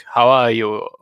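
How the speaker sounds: slow, drawn-out spooky count title; lightly hammed vampire announcer; mock count. Host introduces his co-host as a spooky count.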